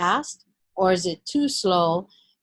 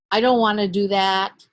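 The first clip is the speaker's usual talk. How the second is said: mock reluctant; 4 dB louder than usual. Shown as a demonstration. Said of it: "negative verbal language like".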